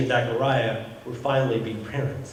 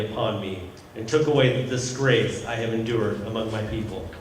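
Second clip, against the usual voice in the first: scripture reading; 3 semitones lower than usual. Acted. Pastor reading the gospel text to the congregation, solemn. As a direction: read the passage with reverence. Reads the scripture passage aloud.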